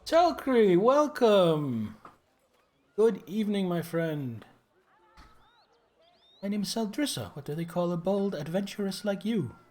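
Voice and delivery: lightly voiced excited girl; bubbly girl gushing at a hero; eager young girl. Voices young NPC Sheldrissa.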